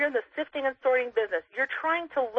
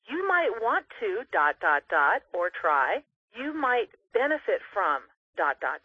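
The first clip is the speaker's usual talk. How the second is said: slow demo line; slower than usual. Shown as a demonstration. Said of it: "So here's what we're gonna say".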